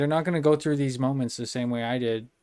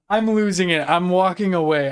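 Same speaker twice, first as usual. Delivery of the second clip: louder, higher, frazzled; flustered outburst; 3 semitones higher, 5 dB louder than usual. Real, not acted. Streamer flustered after misnaming a guest, loud and frazzled. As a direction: throw it out, overwhelmed.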